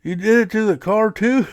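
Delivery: high, loud disbelief; shocked uncle. Retold or imitated. Uncle learns the car got colored too, loud and shocked. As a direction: pitch it way up in shock. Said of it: "He goes".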